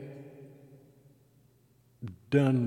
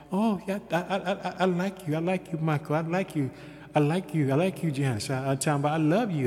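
mock sweet praise; 4 semitones higher than usual. Mocking people who pretend to like.

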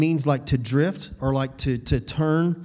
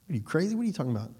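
mock TV character; 2 semitones higher, 6 dB quieter, much faster than usual. Imitating show character.

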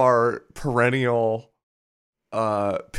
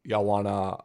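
Maine accent. Shown as a demonstration. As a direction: have a rough go at a Maine accent. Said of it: "give me a try".

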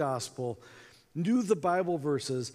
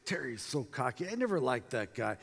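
grumbling to yourself, softer, retold anger; quiet fuming; 3 semitones lower, 5 dB quieter than usual. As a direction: stew over it under your breath. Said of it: "angry, kinda fuming".

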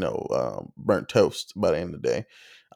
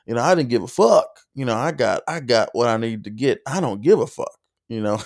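Southern twang; 2 semitones higher than usual. Retold or imitated. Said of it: "like a Savannah accent".

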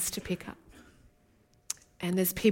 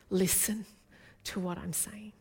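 hushed whisper; 7 dB quieter than usual. Real, not acted. Preacher to congregation, a hushed whisper. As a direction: drop to a whisper for the climax.

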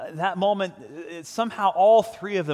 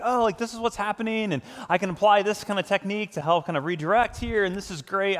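lightly voiced smug dad; a touch of self-satisfied glee; mock proud self; 5 semitones higher than usual. Pastor imitates his overconfident past self, mildly smug. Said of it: "I was like".

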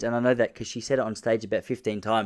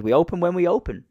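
receptionist's reply; 7 semitones higher, 4 dB louder than usual. Retold or imitated. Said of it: "He goes".

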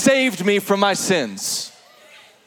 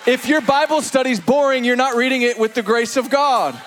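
preaching shout; 2 semitones higher than usual. Real, not acted.

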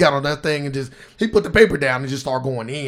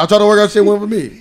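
raised, laughing retelling; quoting Patrice again; 5 semitones higher, 5 dB louder than usual. Retold or imitated. Friend repeats Patrice's joke, laughing. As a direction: laugh it out, pitched up. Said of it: "He said".

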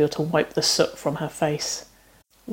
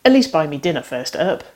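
calling after; 5 dB louder than usual. Acted. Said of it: "the grin she could hear in the redhead's voice as it called after her".

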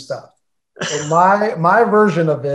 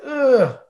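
retold uneasy groan; 8 semitones higher than usual. Retold dread at coming in late.

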